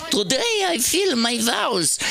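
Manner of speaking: high, slow put-on Jewish woman; Jewish accent. Comic trying the Proverbs woman in a Jewish accent. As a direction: put on an old Jewish lady. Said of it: "kind of a Jewish".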